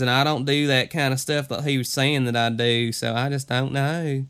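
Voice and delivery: hammed-up Southern hick twang; hick accent. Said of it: "a little on the hick side".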